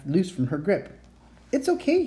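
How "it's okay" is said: reassuring. A narrator's reading. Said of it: "he assured her".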